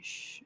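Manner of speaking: soft shush for quiet. Retold or imitated. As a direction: hush them with a shh. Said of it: "Huck Finn is, like, going".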